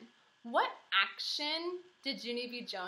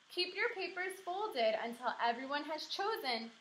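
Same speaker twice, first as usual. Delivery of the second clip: teacher instruction; 5 semitones higher than usual. Acted. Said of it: "said Missus".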